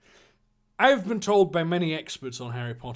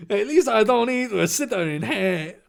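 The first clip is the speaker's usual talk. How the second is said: put-on higher-pitched caricature Chinese accent; mock Chinese accent; 5 semitones higher, 4 dB louder than usual. Draco fumbling a comeback, mock Chinese accent. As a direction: slip into a hammed-up Chinese accent. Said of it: "he's Chinese now".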